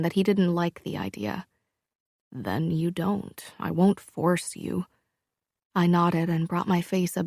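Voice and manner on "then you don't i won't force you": slow, gentle reassurance; reassuring. Acted. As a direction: ease her worries, slowly. Luca reassures her gently.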